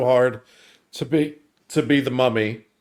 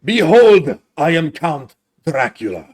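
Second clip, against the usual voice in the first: Count Dracula; 5 dB louder than usual. Pretend. Dracula introducing himself on request, theatrical Transylvanian accent. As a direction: announce yourself in a hammy Transylvanian accent. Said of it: "do your best Transylvania accent".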